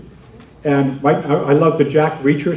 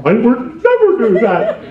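laughing through the line, slower; 7 semitones higher, 4 dB louder, slower than usual. Pretend. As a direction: laugh as you say it, slow. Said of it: "So you're laughing, going".

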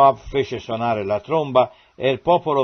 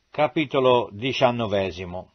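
usual speaking voice

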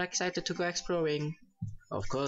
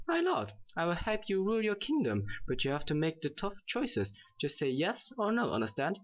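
lightly voiced, higher girly advisor; a mock girly voice that half slips; hammed-up high girly voice, mostly held; 3 semitones higher than usual. Shown as a demonstration. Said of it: "I think my girly voice is shitty".

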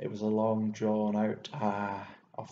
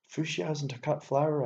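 mocking correction, slightly raised; taunting; 5 semitones higher, 5 dB louder than usual. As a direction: needle him with a know-it-all jab. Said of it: "I taunted".

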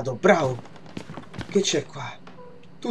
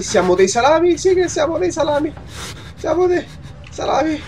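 high-pitched joking question and answer; silly voice; 9 semitones higher than usual. Acted. Player joking at hanging bodies, silly high voice. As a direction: climb into a squeaky mock chant.

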